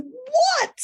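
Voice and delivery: high, insistent mock exasperation; exasperated plea. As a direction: beg to be let in on the joke. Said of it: "I said".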